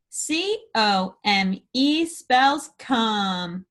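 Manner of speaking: letters spelt out slowly; slow spelling. Shown as a demonstration. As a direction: spell each letter with a pause. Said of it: "spell it".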